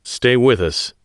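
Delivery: begging a wounded friend to hold on; shaky. Acted. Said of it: "his voice shaky".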